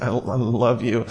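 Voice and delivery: low, soft, stumbling mock affection; awkward. Adult handing a gift to another adult, awkward. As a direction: mumble it like an embarrassed adult. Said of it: "feel so awkward about".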